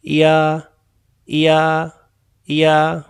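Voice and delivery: "या" as "ई" and "आ" joined into one syllable; blended ia. Shown as a demonstration. Teacher joins two vowels into "या" for the class. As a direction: glide "ई" into "आ" to make "या". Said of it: "जोड़ के पढ़ेंगे तो कैसे होगा".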